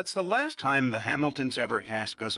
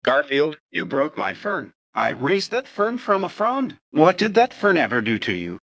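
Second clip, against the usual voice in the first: louder, upset scolding over the broken fern; angry outburst; 7 dB louder than usual. Acted. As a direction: owner scolding the cat for breaking his fern, angry and loud. Owner finds his fern broken.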